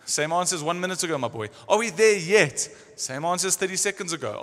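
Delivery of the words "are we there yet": put-on whiny kid asking from the back seat; nagging child, louder; pestering child. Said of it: "sounds like kids on a trip".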